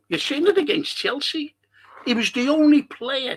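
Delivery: 'You've seen it against Chelsea' pitched high with real fire; excited. Real, not acted. Repeats phrase, rising excitement.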